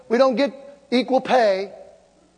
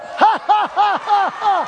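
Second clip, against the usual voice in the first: mocking laugh at the devil; 9 semitones higher than usual. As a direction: laugh defiantly, a staged triumphant laugh. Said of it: "Let's laugh at the devil".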